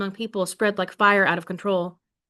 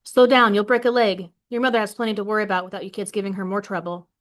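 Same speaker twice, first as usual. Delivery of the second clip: scolding. Acted. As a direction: call out sharply at the noisy kids, then nag fast. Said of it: "she's the first to scold us".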